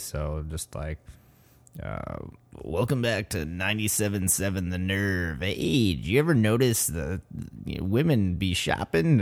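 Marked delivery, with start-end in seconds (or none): 2.6-9.2 brash morning zoo DJ voice; shock jock radio host. Retold or imitated. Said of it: "a morning zoo or shock jock radio voices".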